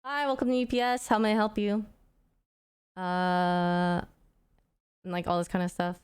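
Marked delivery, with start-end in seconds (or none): 0.0-1.8 lightly put-on front-desk greeting, starting higher; routine, well-practiced company welcome; phone voice. Shown as a demonstration. HR worker greeting a UPS caller, light phone voice. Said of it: "kind of, like, a phone voice".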